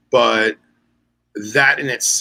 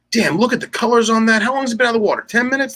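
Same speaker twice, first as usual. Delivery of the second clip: admiring fisherman cop; 10 semitones higher, faster than usual. Retold or imitated. Cop admiring the undersized dolphin, excited praise. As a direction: pitch jumps high with mock delight over the fish. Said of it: "He goes".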